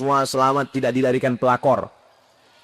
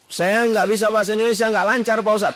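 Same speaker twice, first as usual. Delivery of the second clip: pleading congregant; 9 semitones higher, faster than usual. Acted.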